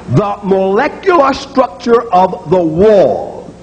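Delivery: slow mock Russian accent; a hint of a Russian physicist saying it; lightly put-on Russian accent. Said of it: "a Russian physicist".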